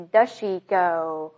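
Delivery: "does she" as "duh-shee", no z; linked does she. Shown as a demonstration. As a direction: join "does" straight onto "she". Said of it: "用the和she直接连在一起". (does she 去掉 z 连读)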